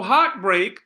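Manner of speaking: slow "heartbreak", HEART and BREAK equally weighted; two equal stresses. Shown as a demonstration. Teacher repeating the spondee for class, both syllables of "heartbreak" stressed. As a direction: press on both halves of "heartbreak". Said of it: "same level of pronunciation".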